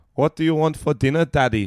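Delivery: loud, high-pitched put-on Indian accent. Asked for an impression, imitating a man who spoke in an Indian accent. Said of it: "an in Indian accent".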